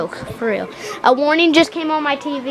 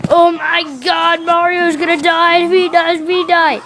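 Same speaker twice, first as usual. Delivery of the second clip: slightly raised, agitated fretting; mild panic; 4 semitones higher, 3 dB louder than usual. Acted. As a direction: fret aloud in acted alarm. Mario's brain panics in skit.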